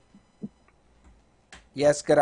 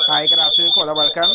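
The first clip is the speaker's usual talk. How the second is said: shouting into a phone; 11 dB louder, faster than usual. Real, not acted. Greeting caller on bad line.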